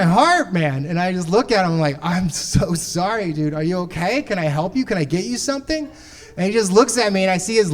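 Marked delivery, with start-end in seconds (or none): 2.0-5.9 consoling. Retold or imitated. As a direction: ease him gently, like a worried friend. Consoling heartbroken friend.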